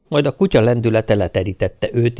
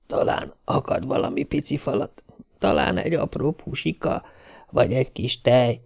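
magában suttogva, vágyakozva; suttogó gondolat; 3 semitones higher, 6 dB quieter than usual. A narrator's reading. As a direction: halk suttogás, mintha csak gondolná. (a kutya a gazdit várva magában suttogja, mit hozhat)

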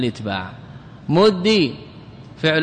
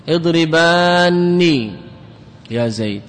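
slow example; slower than usual. Shown as a demonstration. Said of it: "slow example for students".

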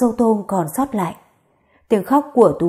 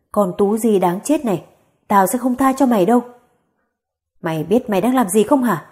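mild gritted threat. Acted. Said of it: "Bà Lý gằn từng chữ".

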